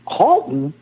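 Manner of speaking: high, incredulous voice of a baffled God; exasperated God. Retold or imitated. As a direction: play God catching a clerical error. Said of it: "God's gonna look in that book someday and say".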